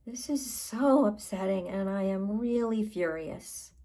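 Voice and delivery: controlled, demonstrated indignation; venting fury. Shown as a demonstration. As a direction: lean hard on how upset you are. Models venting fury while tapping.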